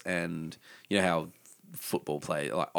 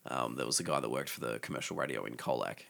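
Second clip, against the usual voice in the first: lower, deeper radio voice; 8 semitones lower, 6 dB quieter than usual. Real, not acted. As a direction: drop the voice deep. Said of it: "Wow, you've gone deeper".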